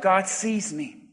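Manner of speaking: low, soft and slow; said to oneself. Shown as a demonstration. Preacher leading the congregation in private affirmation, quietly to oneself. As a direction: say it softly, as if only to yourself. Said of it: "Now say it to yourself".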